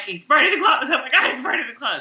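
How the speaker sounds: mock-panicked exclaiming, quickening; going ballistic. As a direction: replay your own outrage, speeding up. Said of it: "I just felt went ballistic".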